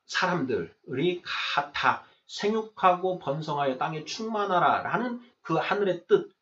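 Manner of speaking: ordinary talk, nothing marked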